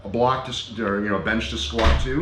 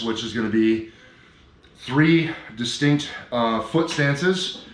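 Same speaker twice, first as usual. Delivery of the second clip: out of breath. Real, not acted. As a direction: talk through heavy breathing after lifting. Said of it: "it's hard to do out of breath".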